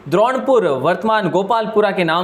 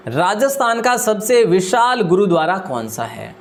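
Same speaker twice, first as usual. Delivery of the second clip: slower, deliberate second reading; slow reread; slower than usual. Shown as a demonstration. Teacher repeating the quiz question for students, slowly. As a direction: spell the question out again, word by word. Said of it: "teacher rereads question slowly".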